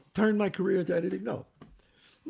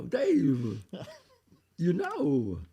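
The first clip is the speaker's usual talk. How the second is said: impression of Chris; much slower than usual. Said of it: "I don't do 'em great".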